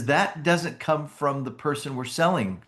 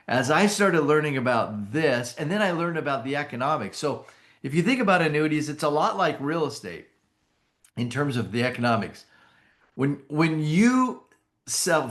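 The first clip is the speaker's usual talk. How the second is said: rushed, higher-pitched excited pitch; getting excited; 4 semitones higher than usual. Real, not acted. Speaker racing ahead into the economics of annuities, getting excited. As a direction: get carried away, words tumbling out higher. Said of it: "I'm getting excited".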